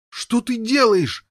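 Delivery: high, loud, slow horrified cry; yell. Acted. Boy yelling at brother killing unicorn. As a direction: scream it out in horror. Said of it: "завопил Гавейн".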